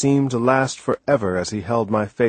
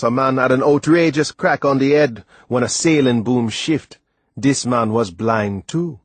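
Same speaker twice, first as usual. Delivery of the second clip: lightly voiced Caribbean sailor telling a story; a hint of an old island sailor's accent; Timothy's tale; 3 semitones higher, 3 dB louder than usual.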